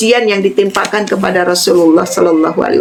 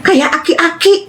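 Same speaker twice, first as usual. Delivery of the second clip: high, drawn-out mock granny remark; imitated nosy grandma; 7 semitones higher, slower than usual. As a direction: stretch it out high, imitating the old lady through a laugh. (menirukan nenek usil, tinggi dan dipanjangkan)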